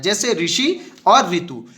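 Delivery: ऋषि और ऋतु spoken slowly, each ऋ sound drawn out; slow clear example words. Shown as a demonstration. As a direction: say ऋषि and ऋतु carefully for the class. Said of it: "ऋषि स्वर का प्रयोग". (धीमे और साफ़ उच्चारण में ऋषि और ऋतु)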